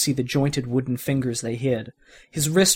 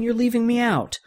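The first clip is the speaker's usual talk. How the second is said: put-on whiny kid; 10 semitones higher than usual. Andy voiced high, complaining.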